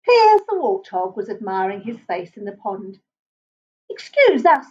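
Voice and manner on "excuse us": polite. Acted. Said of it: "said the porcupine politely".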